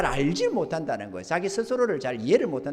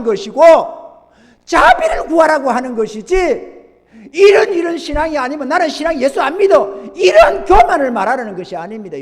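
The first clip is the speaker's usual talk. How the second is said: loud, raised pulpit voice; forceful preaching; 9 semitones higher, 11 dB louder than usual. Real, not acted. Preacher demands surrender before the Lord, forceful preaching. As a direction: hammer it out to the congregation.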